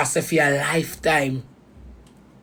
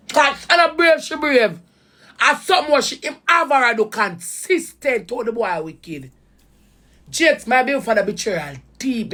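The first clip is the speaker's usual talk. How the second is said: high, strained pitch; emotional; 6 semitones higher than usual. Real, not acted. Recalling the betrayal, emotional and high. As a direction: voice climbing with hurt. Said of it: "I get so emotional".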